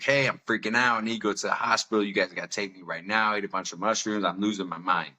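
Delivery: a touch of freaking out, imitating mild panic. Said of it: "I got a little more intense".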